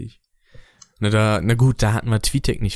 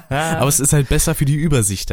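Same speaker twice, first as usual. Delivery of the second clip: ironic laugh through the words; 4 semitones higher than usual. Real, not acted. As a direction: laugh it off wryly. Laughing at own mishap.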